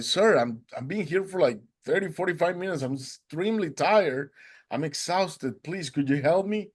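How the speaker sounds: high, weary appeal; retold pleading. Exhausted swimmer to the boatman, retold high plea. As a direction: act out begging for help.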